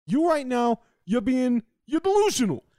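hammed-up reality show accusation; mock threatening yell. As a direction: jab it at him like a threat. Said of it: "That was good. You attacked the king".

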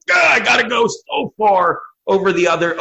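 high, hammed-up shout; mock overexcited yell. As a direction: yell as if wildly carried away. Acting out director going too far.

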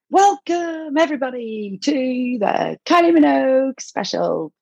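a hint of a camp TV host welcome. Alan Carr opening a singer's special, lightly mimicked host welcome. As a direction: lightly mimic the show host's greeting.

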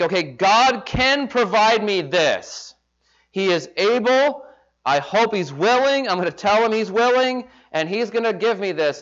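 high eager mock prayer; presumptuous prayer. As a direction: talk God into it.

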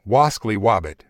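cartoon hunter lisp, Ws for Rs; Elmer Fudd voice. Cartoon hunter quote, timbre shifted.

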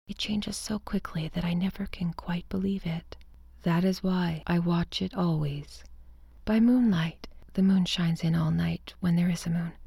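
a secretive, mostly whispered telling; whispered narration. A narrator's reading. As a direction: confide it as if no one should hear.

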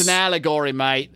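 lightly put-on Australian accent; a jokey Aussie twang on mate; mock Australian. Jokey Australian accent mocking Alan Moore's commentary. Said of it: "I don't know why I keep making him Australian".

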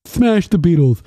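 hammed-up Scottish heckler; mock Scottish rant. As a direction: rant like a riled-up Scotsman.

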